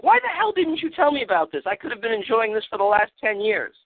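high, far-off voice of outraged disbelief; exasperated younger sibling. Retold or imitated. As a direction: demand it like a betrayed kid brother. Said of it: "go to your brother and be like".

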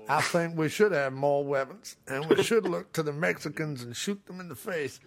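mock gun owner. Voicing agreeing gun-owning viewers.

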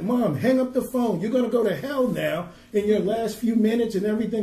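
half-shouted plea to hang up; retold yelling. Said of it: "she's yelling at her mom".

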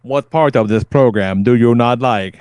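a hint of stilted machine questioning; lightly voiced robot. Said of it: "And he goes".

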